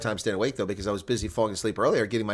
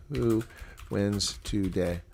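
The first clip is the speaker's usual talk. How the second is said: slow drawn-out poll question; much slower than usual. Shown as a demonstration. Reading the poll question to viewers, slow and drawn out. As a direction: slowly stretch out "wins today". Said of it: "do a poll on who will win".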